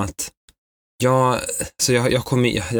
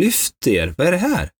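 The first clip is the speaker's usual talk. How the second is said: exasperated; 4 semitones higher than usual. Retold or imitated. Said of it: "Jag blev så irriterad".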